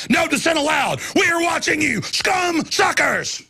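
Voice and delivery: high shouted mock threat; hammed-up sinister decree shout; mock menacing quote. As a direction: sneer it out like a tyrant's warning. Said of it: "They actually say".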